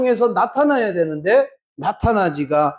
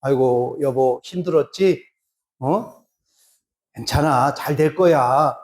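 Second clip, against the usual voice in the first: comforting; 6 semitones lower than usual. Retold or imitated. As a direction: console him gently. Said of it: "좋은 말로 이렇게 위로를". (남편을 다정하게 위로하는 말투)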